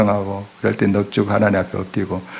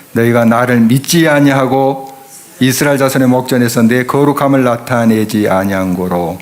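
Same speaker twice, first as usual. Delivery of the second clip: reading scripture aloud together. Shown as a demonstration. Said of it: "한번 좀 읽어보도록 하겠습니다. 같이요".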